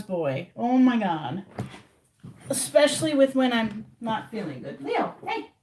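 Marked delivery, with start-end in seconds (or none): 4.8-5.5 high coaxing call; cat-calling voice. Real, not acted. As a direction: lightly coax the cat over.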